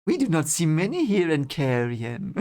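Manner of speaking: lightly put-on count with swooping pitch; Barthanes. Barthanes playing the Great Game with Rand, lightly voiced count. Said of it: "that's my Barthanes impression now".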